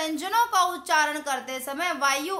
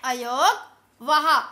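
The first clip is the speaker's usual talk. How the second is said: अयोगवाह drawn out syllable by syllable, slow; slow emphatic answer; 3 semitones lower, 4 dB louder, much slower than usual. Shown as a demonstration. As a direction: spell out अयोगवाह slowly for the class. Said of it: "ये सब हमारे क्या हैं". (अयोगवाह धीरे-धीरे, हर अक्षर साफ़)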